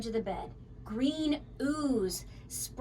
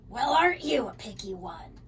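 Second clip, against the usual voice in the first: sniffy. Acted. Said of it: "she sniffed".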